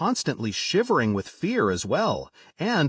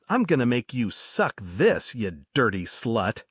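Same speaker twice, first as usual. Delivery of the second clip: menacing threat; 4 semitones lower than usual. Retold or imitated. Drunk attacker threatens her.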